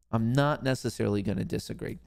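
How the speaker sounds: deliberate repeat. Real, not acted. Host repeating the hedge to the viewer, deliberately. Repeats the same line for effect.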